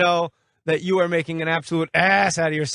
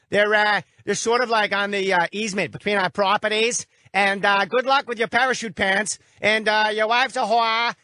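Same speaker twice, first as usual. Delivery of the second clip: hammed-up Boston accent building to a shout; Boston neighbor; 4 semitones higher than usual. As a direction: play a pushy Boston neighbor. Host impersonates Boston neighbor.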